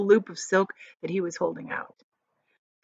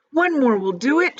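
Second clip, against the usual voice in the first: loud, high call; excited high shout; 7 semitones higher, 6 dB louder than usual. Acted. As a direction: urge them on eagerly. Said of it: "shouted the old green grasshopper".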